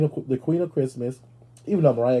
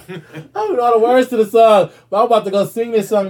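laughing through words; 11 semitones higher, 11 dB louder than usual. Real, not acted. Laughing while talking.

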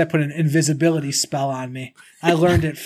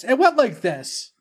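high, slow mock creature voice; teasing high-pitched imitation; mimicked creature voice; 8 semitones higher, slower than usual. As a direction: mimic the kappa, high and drawn out. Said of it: "Why does he sound like Yoda?".

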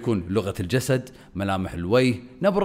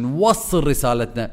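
raised then lowered tone; 3 semitones higher, 4 dB louder, slower than usual. Shown as a demonstration. Coach demonstrating vocal range to viewers, raised then lowered tone. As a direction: lift the voice on نوصل, then bring it back down. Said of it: "شفتوا توني شنو سويت؟".

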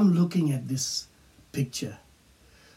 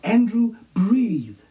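louder call to the patient; nurse calling; 7 semitones higher, 4 dB louder, slower than usual. Retold or imitated. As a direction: call his name to rouse him. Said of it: "I could hear her voice calling out".

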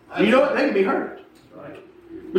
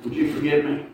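soft, lower, sheepish; humble apology; 4 semitones lower, 7 dB quieter than usual. Retold or imitated. Preacher apologizing to the driver he confronted, quiet and humble. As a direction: say it small and contrite.

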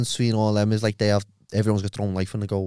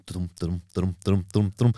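heartbeat imitation; 5 semitones lower, 4 dB quieter than usual. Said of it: "my heart starts going".

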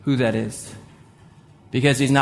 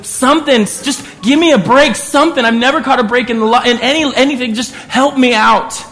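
tearful begging; 8 semitones higher, 4 dB louder than usual. Retold or imitated. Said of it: "weeps and just starts crying and begging".

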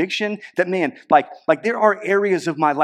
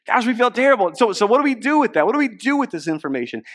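hammed-up dismay, much higher and louder; anxious crowd; 7 semitones higher, 3 dB louder than usual. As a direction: act the guilty crowd asking what to do. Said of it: "So they said".

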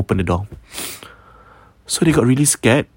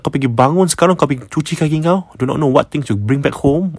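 higher, brisk motherly telling-off; retold scolding; 4 semitones higher, faster than usual. Mother to son just woken, retold scolding. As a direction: scold him with mild exasperation. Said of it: "Obviously, kena marah".

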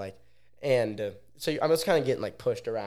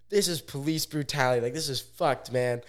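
raised pitch, mildly acted outrage; retold outraged protest; 3 semitones higher than usual. Protesting while getting dragged out, higher retold complaint. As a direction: protest the rough treatment in mock outrage.

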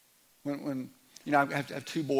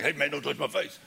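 lightly acted tough-guy objection, louder; mock warning; 5 dB louder than usual. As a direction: warn someone off in mock annoyance. Mock touchy warning, disowned at once.

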